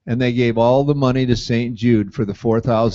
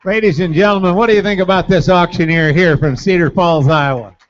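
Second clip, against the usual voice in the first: announcer voice; 3 semitones higher, 6 dB louder than usual. Real, not acted. Host addresses the crowd.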